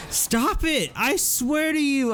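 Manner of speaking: high panicked threat at a cow; high frantic threat. Real, not acted.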